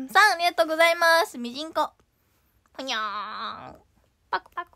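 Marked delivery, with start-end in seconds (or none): 2.7-4.7 cute low mascot sound. Acted.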